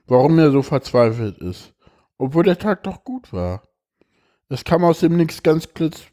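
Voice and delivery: expressive reading aloud of a personal text; emotional reading. Acted. Reads a moving text aloud.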